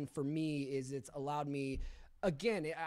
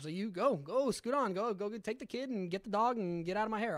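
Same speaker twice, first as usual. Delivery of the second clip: raised, impatient send-off; dismissive shooing; 4 semitones higher, 3 dB louder than usual. Retold or imitated. Drunk husband waving off his pregnant wife, mock dismissive shooing. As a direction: shoo someone away, lightly acted.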